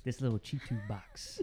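low, soft dude voice, lightly done; a hint of a laid-back YouTube maker; YouTube guy impression. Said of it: "your other dude impression".

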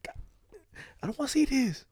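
groan, then whine it in disgust. Retold or imitated. Disgusted reaction to tweets.

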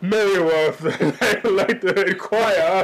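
slow, drawn-out, prim phone voice; feminine phone voice. Acted. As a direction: put on an affected, slightly feminine phone voice. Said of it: "can come off a little feminine".

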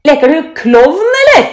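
loud, high schoolboy jeer; taunting. A narrator's reading. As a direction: tease him with a challenging question. Boys taunt Benny in story. (hånlig, høyt gutterop)

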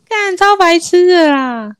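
laughing. Real, not acted. Laughing at own story.

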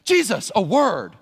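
mock-stern request for a private word; Peter taking Jesus aside. Peter pulling Jesus aside to rebuke, slow and pointed. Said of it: "Peter took him aside".

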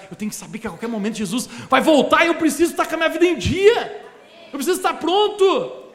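mais alto e intenso; pregação enfática. Real, not acted. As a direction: suba a voz no clímax. Preaching climax. (pastor pregando com força, mais alto)

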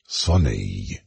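low, indignant repeat; outraged. Acted. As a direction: spit the word back in outrage. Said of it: "vibrant with outrage".

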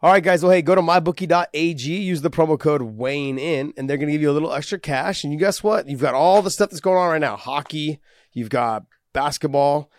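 energetic, casual host-read advert; sponsor ad read. Acted. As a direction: sell the betting site to listeners. Reads sponsor betting promo.

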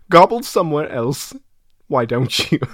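amateur British actor scolding; attempted British accent, acted dismissal; Michael Caine. Impressionist telling off a turkey, British accent. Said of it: "Michael Caine".

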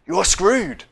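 high-pitched exclaimed verdict; mock-screamed punchline. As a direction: blurt it out as a comic scream. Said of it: "are basically screaming".

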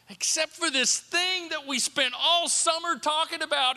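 high, insistent preacher's delivery; emphatic preaching. Real, not acted. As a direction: drive the point home, stretching key words. Preaches with rising force.

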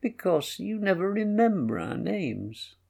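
put-on a hurt child finally admitting why; sorrowful. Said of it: "said Faria in a sorrowful voice".

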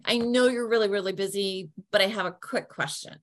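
polite and easygoing, acknowledging they're busy; friendly. Shown as a demonstration. Caller to busy office staff, light and friendly. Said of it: "laughing, joking".

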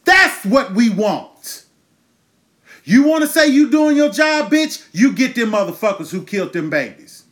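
real outrage, voice up high; angry yell. Real, not acted. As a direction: bark it at the authorities. Ranting at the authorities.

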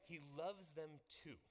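slow, emphatic call of LOVES; preacher drawing the room into a slow chant. Shown as a demonstration. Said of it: "louder, please".

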